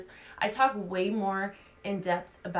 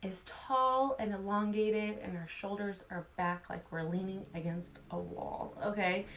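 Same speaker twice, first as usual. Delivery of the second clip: guided meditation. Acted. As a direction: guide them gently through the breaths. Leads breath work meditation.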